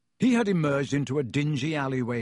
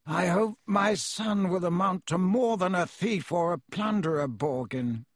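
cold; 5 semitones higher than usual. Acted. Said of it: "said Mister Malfoy coldly".

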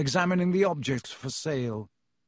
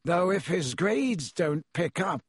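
colder still; 4 semitones higher, slower than usual. Acted. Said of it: "more coldly still".

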